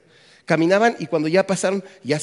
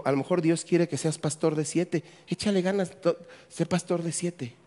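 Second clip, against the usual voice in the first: gentle encouragement; 6 dB quieter than usual. Retold or imitated. Wife consoles the discouraged pastor.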